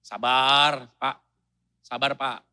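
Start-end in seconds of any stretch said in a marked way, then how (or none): 0.0-1.2 soothing. Shown as a demonstration. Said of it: "butuh kerendahan hati".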